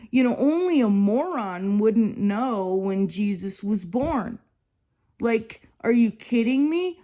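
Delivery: replaying how she snapped at the brother; retold freak-out. Telling off the brother at the annual meeting, heated. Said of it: "freaked out at him".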